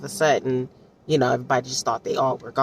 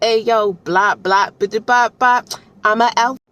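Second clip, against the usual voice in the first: higher, louder, mock-bragging blah blah; mock boastful heroine; 6 semitones higher, 5 dB louder than usual. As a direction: toss it off like a cocky alpha girl. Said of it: "she was like".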